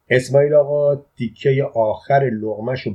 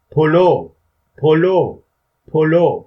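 high, loud one-word calls, evenly spaced; loud repeated shout; 5 semitones higher, 7 dB louder, much slower than usual. A narrator's reading. Boy answering his father from the car, loud holler. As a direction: holler it as if through cupped hands. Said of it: "چند بار با صدای بلند داد زدم".

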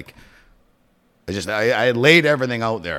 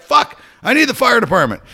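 urgent plea; 13 semitones higher, 7 dB louder than usual. Retold or imitated. Urgent 911 call.

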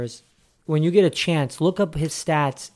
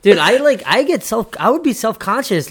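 amused; 8 semitones higher, 5 dB louder than usual. Real, not acted. Cracking up over combine outfits.

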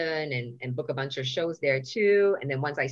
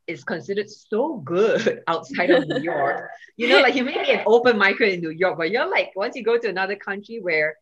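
laughing excitement; 3 semitones higher, 5 dB louder than usual. Real, not acted.

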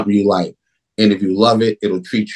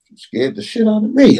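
impressed retold exclamation; 11 semitones higher than usual. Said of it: "Clifton was like".

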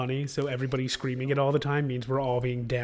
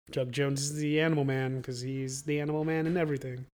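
voice giving out. Real, not acted. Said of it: "Oh, I'm fully losing my voice".

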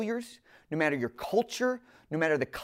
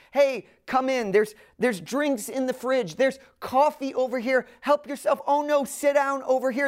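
higher, bubbly host voice; eager host welcome; 5 semitones higher than usual. Retold or imitated. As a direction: gush like a host urging a guest in. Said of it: "and they were like".

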